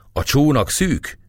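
high, drawn-out call. A narrator's reading. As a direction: call it out slowly, pitched high. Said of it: "kiáltja Gergely".

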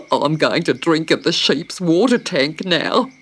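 loud, chortling emu; chortle, then announce it heartily; big bird. A narrator's reading. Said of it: "said the big bird".

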